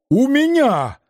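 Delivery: out of breath, high cry; breathless. Acted. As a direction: gasp it out breathless. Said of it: "задыхаясь".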